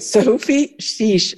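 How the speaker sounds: Sophie Sheesh said slowly, with a long ee; name pronunciation. Shown as a demonstration. Guest telling hosts her name, slow and clear. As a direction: draw out SHEESH as "sheeesh". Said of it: "tell us your name".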